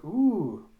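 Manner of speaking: high, loud swooping "ooh"; teasing ooh. Retold or imitated. Gonzu hears of Ito's present, teasing ooh. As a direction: coo it knowingly, with a swoop.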